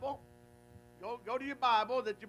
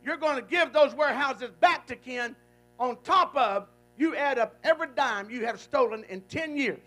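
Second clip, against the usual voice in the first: loud commanding ruling; stern judge; 7 dB louder than usual. Retold or imitated. Judge ordering the accountant to repay, loud and stern. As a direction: lay down the verdict. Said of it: "the judge said".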